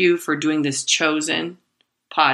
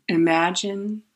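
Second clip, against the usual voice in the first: slow, soft meditation-teacher voice; unhurried mock-serene self-coaching; guided meditation voice; 3 dB quieter, slower than usual. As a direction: talk yourself down slowly and gently, like an Eckhart Tolle tape. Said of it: "I'm talking in this voice to myself".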